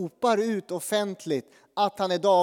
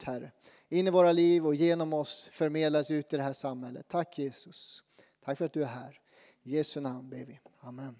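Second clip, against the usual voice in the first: prayer; 2 semitones lower than usual. Acted. Pastor prays before the sermon.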